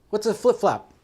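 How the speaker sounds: loud, high, baffled mock yell; worked-up retold shout; exasperated question. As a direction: imitate an angry guy demanding an explanation. Retold angry confusion at guard's gesture.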